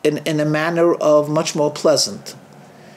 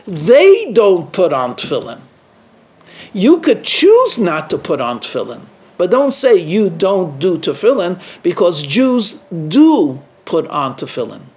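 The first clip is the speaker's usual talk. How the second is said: firm preacher's reproach; forceful rebuke. Retold or imitated. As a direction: drive the point home hard.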